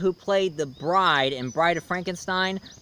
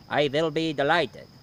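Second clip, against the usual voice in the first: Dracula. Acted. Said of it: "And he was like".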